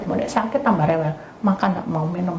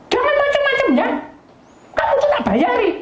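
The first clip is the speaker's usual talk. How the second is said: scolding mother-in-law. Retold or imitated. Mother-in-law scolding the maid, high and sharp.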